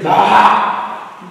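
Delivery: drawn-out baa; sheep bleat. Shown as a demonstration. Teacher quizzing child on the animal, sheep's bleat. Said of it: "Sheep makes sound bah".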